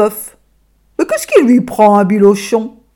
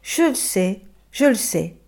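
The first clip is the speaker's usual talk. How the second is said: soft soothing; 7 dB quieter than usual. Acted. Child soothing the donkey.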